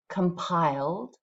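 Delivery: second take of the modelled word; slow model word repeated. Shown as a demonstration. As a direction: repeat compiled slowly. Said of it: "Let's just say these words out loud".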